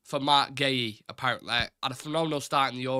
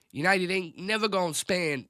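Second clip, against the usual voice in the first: Theo Von impression; 5 semitones higher than usual. Mocking United's transfer budget, higher Southern American accent. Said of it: "like Theo Von".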